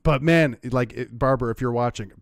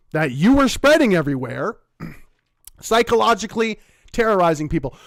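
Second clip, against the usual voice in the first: raised, indignant rant; heated rant; 2 semitones higher, 5 dB louder than usual. Real, not acted. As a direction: tear into them, fed up.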